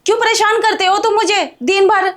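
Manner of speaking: irritated complaint. Acted. Bahu fed up with her father-in-law's nagging, irritated. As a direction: snap back, fed up with him.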